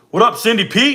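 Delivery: high, bright hype shout-out; excited greeting. Real, not acted. Greeting a chatter on stream.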